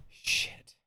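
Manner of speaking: soft voiceless curse, drawn out; whispered mock-toddler expletive; imitating a toddler cursing. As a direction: let it out under the breath. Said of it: "He went".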